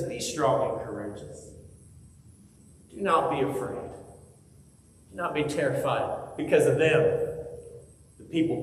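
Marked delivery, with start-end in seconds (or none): 0.0-7.2 gentle reassurance. Acted. God reassuring us here today, soft and tender. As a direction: say it close, like comforting a child. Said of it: "He says".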